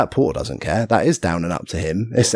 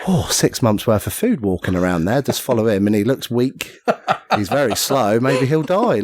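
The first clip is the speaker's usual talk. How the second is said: imagined dog's thoughts; 4 semitones higher than usual. Pretend. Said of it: "he was probably thinking".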